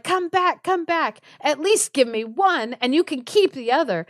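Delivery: high-pitched pleading call; imitated urgent plea; mock calling out. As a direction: call after someone running away, acted. Husband calling after fleeing guest.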